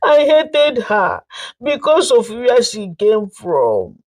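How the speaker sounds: tearful confession. Acted. Mother-in-law confessing to the family, tearful plea. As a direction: beg forgiveness through tears. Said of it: "Tears poured down her face".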